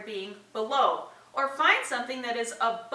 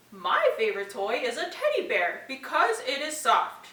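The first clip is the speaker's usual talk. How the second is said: puppet voice demo; 2 semitones higher than usual. Shown as a demonstration. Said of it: "you can model with the puppet".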